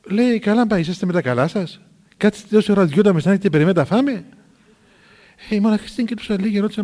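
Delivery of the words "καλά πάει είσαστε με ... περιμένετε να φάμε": louder retold telling-off; incredulous, raised-voice reproach; taken-aback scolding. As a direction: scold them in disbelief. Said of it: "η γερόντισσα παραξενευόταν".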